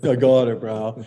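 loud, cocky brush-off; mock Dustin, brash. Young Dustin brushing off Poulter's advice, loud and cocky. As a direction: wave him off loudly, bro. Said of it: "Dustin's like".

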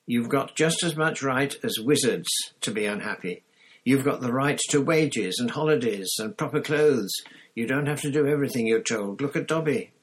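rousing them to their rights; heated appeal; indignant Hermione. Acted. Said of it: "said Hermione angrily".

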